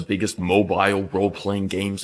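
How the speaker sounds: hurried ad read voice; sponsor read. Pretend. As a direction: pitch it like a sponsor spot. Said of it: "why I would never do a sponsor".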